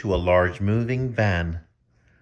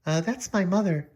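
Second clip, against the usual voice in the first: Julie voice; 8 semitones higher, 3 dB quieter than usual. Acted. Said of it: "Oh, I'm messing up".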